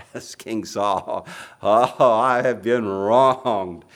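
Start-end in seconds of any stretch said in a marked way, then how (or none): 1.6-3.9 slow, loud mock self-pity; aggrieved whine. Preacher mocking Saul's self-pity, drawn-out aggrieved moan. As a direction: whine it like a wounded king. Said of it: "Ah, attitude, it's coming out".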